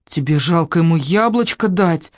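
put-on hurt little girl reproaching grandma; a touch of childish offense; offended child. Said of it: "обиженно сказала бабушке".

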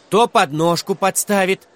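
high, loud list of grievances; indignant child calling out; shouted accusations. A narrator's reading. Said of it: "снова выкрикнул".

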